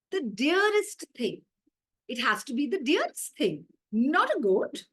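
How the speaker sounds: goat realising he isn't the dearest thing; dawning excitement. Acted. Goat working it out to himself, growing excited.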